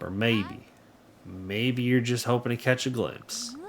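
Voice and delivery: musing, lightly southern storyteller read; light southern accent. Acted. Local wonders about the elusive bandit, light southern accent. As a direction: muse it with a mild southern lilt. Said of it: "that is my southern accent".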